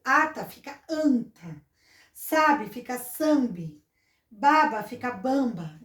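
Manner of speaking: "ata", "anta", "sabe", "sambe", "baba", "bamba" said slowly, each pair spelled out carefully; slow nasal demo. Shown as a demonstration. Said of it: "Por exemplo". (devagar, mostrando o som nasal de "anta", "sambe", "bamba")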